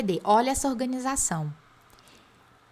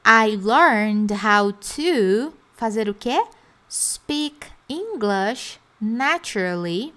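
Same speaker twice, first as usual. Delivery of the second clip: slow drill; slower than usual. Shown as a demonstration. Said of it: "estrutura bloco".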